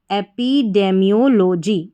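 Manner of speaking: "एपिडेमियोलॉजी" built as एपी-डे-मियो-लोजी; pronunciation demo. Shown as a demonstration. Teacher showing how epidemiology is read, pronunciation demo. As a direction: say "एपिडेमियोलॉजी" in its spelled-out parts. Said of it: "इस तरीके से".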